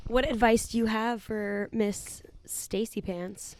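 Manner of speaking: slow breathy whisper of the question. Acted. Host whispering the advice question to co-host. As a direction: whisper it slowly, teasing.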